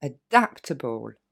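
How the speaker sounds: Adaptable said slowly, able unstressed; slow model word. Shown as a demonstration. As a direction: stretch adaptable, weak final syllable. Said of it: "on finit avec adaptable". (Adaptable lentement, fin non accentuée)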